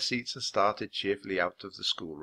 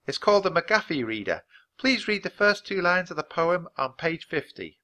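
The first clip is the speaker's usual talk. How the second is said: higher-pitched, kindly teacher voice; encouraging schoolteacher; 8 semitones higher, 3 dB louder than usual. Acted. Teacher opening the first lesson, encouragingly. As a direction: invite the pupil to begin.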